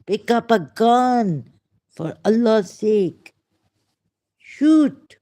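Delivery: loud, high outburst building to a shout; slow, forceful words, then a shouted last word; real worked-up shout; emotional outburst. Real, not acted. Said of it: "sorry, I get emotional".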